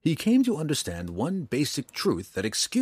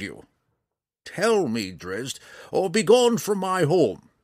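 put-on high, raised-voice old ranger demanding trust; perturbed; 6 semitones higher, 4 dB louder than usual. A narrator's reading. Old ranger challenging Drizzt to confide or leave, perturbed. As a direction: press him hard, pitched up and agitated. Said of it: "seeming perturbed".

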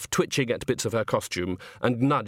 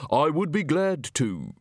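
stiff barking toy soldier; 4 semitones higher, slower than usual. Acted. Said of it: "The voice had lost the uncertain, frightened edge".

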